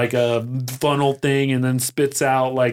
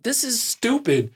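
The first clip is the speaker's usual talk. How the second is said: high-pitched exasperated gripe; mock exasperation; 11 semitones higher than usual. Speaker voicing own doubts about tiny RV chores, exasperated. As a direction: complain in a raised, fed-up voice. Voices own frustrated thought.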